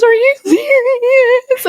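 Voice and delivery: very high, drawn-out mock wail; hammed-up tearful squeal of disbelief; imitated bawling. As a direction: wail it slowly, imitating an overwhelmed crying mom. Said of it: "just bawled".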